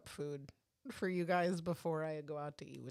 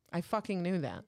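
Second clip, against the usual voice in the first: mock yelling; 4 semitones higher, 6 dB louder than usual. Real, not acted. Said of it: "stop yelling at me".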